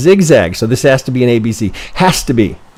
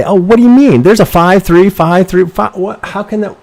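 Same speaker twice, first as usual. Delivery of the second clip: higher, louder mock confusion; mock baffled surprise; 8 semitones higher, 5 dB louder than usual. Trader mimics his own baffled inner voice, higher and louder. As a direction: play the puzzled beginner staring at a chart. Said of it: "'Cause it, it's in your mind's eye".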